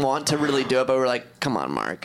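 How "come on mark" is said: low, soft Mark Wahlberg voice; Mark Wahlberg impression. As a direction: drop low and mumble it like Wahlberg. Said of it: "Is that a good Mark Wahlberg impression?".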